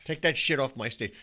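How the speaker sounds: loud, high mock outrage; outraged shout. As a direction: throw it off the stage.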